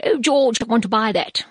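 put-on a weak, half-hearted American accent as Trump; admittedly poor American accent; bad American accent. Mock American accent quoting Trump to George. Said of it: "I haven't got a great American accent".

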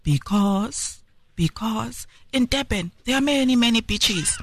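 halting mock pageant answer, drawn out; slow, stalling retold answer; imitated pageant contestant. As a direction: imitate a contestant hesitating through her big answer. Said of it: "And she answered".

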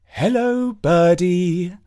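high sweet mum voice; cooing mother. Acted. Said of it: "said Mum".

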